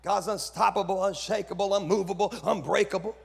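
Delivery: loud, punched list in preaching cadence; preacher's alliteration. Shown as a demonstration. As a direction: hit each word like a pulpit refrain. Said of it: "all the alliterations that we do".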